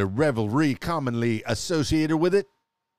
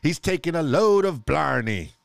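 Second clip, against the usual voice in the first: mock Irish accent; 4 semitones higher, 4 dB louder than usual. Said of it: "sound like a pirate".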